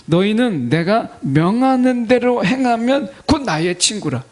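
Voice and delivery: slow, spaced-out scripture reading; slow careful rereading. Shown as a demonstration. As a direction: read the verse slowly and deliberately. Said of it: "다시 천천히 보세요".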